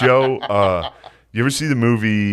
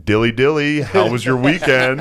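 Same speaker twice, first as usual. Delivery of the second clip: a touch of chirpy office small talk; lightly voiced office bore making small talk; office dork. Energy vampire greeting coworkers, lightly voiced office dork. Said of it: "looks like a dork from an office".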